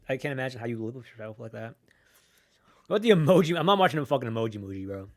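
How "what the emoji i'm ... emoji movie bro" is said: loud, disbelieving outburst; incredulous. Real, not acted. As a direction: scoff in disbelief. Reacting to an emoji movie.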